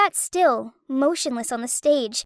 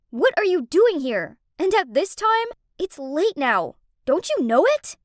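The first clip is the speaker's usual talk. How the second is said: yelling; 3 semitones higher than usual. Acted. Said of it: "He yelled at me".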